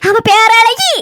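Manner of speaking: slow, put-on sobbing; milk it with crocodile tears; fake crying. Grandmother fakes tears to police. (போலீசிடம் போலியாக அழுது பேசுதல்)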